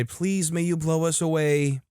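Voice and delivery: a hint of sing-song kid voice; children replying. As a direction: imitate toddlers reciting a polite request. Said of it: "The sons reply".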